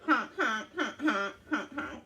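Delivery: lightly honked goose calls; playful goose honking; goose honks. Acted. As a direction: honk it out like a goose. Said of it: "the goose thought".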